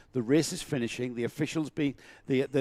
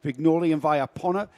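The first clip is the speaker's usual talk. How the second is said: race commentary. Acted. Reading the grid.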